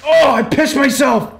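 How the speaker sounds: high, slow, loud wail of dismay. Real, not acted. Gamer yelling at his character wetting himself, loud slow wail. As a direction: cry out in mock horror at the accident.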